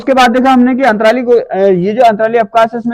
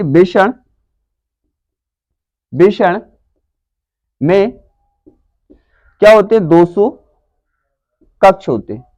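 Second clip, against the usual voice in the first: word by word with long pauses; dictation. Shown as a demonstration. Teacher dictates answer for writing. (लिखवाते हुए, शब्द-शब्द रुककर)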